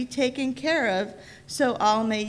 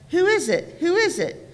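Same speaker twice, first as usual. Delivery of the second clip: calling out; 6 semitones higher than usual. A narrator's reading. Lizard calling out at God's footsteps. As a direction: call out high to the unseen walker.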